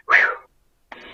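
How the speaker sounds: breathy whew to steady himself; blowing out a breath to hold back tears; shaky exhale. Real, not acted. Wrestler fighting tears mid-interview, a shaky exhale. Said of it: "Sorry, guys".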